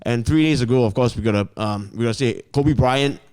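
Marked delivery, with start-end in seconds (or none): 1.6-3.2 chewing while talking; words round a mouthful; mouth full. Real, not acted. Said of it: "Chew your food first".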